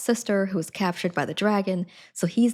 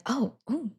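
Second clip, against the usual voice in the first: breathy lovestruck whisper, half mocking; mock-swooning whisper; swooning crush. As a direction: gush over her like a smitten girl. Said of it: "she's like".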